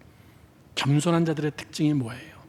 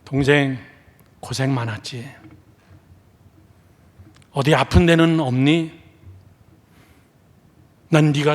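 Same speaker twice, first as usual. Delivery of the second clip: tender elder brother. Acted. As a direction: comfort a brother just come home. Elder brother comforting returned sibling.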